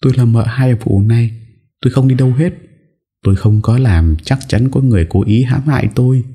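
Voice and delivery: cling on and refuse, panicked; desperate refusal. Acted. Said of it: "lắc đầu nguậy nguậy". (giọng hoảng loạn chối từ)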